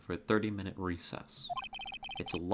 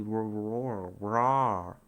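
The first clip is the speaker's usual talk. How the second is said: brul; much slower than usual. Shown as a demonstration. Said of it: "how do you make that sound?".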